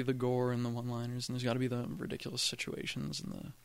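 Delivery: soft, hushed emphatic talk; hushed but emphatic; whisper yelling. Real, not acted. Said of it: "Why are you whispering?".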